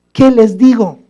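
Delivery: the second take, climbing into desperation; desperate plea. Retold or imitated. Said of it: "Moisés estaba así".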